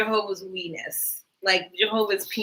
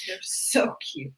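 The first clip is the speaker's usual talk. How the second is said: soft slow whisper; 6 dB quieter, slower than usual. Real, not acted. Echoing cohost, whispered and slow. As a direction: breathe it out, hushed and fond.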